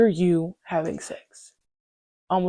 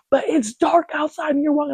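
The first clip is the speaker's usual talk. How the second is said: concerned friend; 9 semitones higher than usual. Retold or imitated. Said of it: "She's like".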